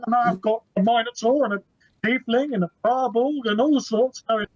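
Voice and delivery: stammering, mildly rattled explanation; flustered barman. Acted. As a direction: trip over your words, a bit overwhelmed.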